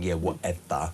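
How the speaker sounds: lightly voiced sulky schoolgirl; petulant teenager. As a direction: mimic a bored teen brushing it off. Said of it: "imagine some sort of petulant teenager".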